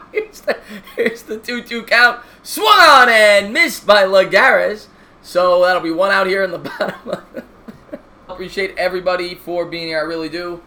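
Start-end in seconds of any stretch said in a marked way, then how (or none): 0.1-7.2 steady broadcaster call of the inning; play-by-play commentary. Acted. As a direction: call the game like a TV announcer. Mock play-by-play of game.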